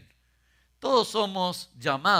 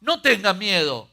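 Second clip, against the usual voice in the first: Jesus calming; 6 semitones higher, 7 dB louder, much slower than usual. A narrator's reading. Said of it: "Jesús le dijo".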